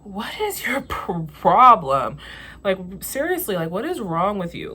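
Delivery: high, fed-up what is your problem; exasperated retort. Retold or imitated. Answering the manager's insult, exasperated. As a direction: snap back in disbelief. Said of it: "And I'm like".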